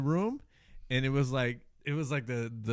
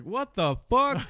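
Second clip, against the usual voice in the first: drawn-out disbelief, pitched up high; retold shock, higher and slower; high slow shocked exclamation; 9 semitones higher, much slower than usual. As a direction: stretch it out like you just walked into a gas cloud. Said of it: "I was like".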